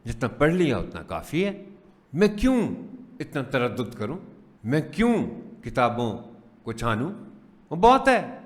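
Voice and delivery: mock complacent teacher, pitch often rising high; dismissive teacher. Teacher voicing colleagues who think little children are easy, dismissive. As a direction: imitate a teacher shrugging off the work. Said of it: "ایک تو یہ رویہ ہے".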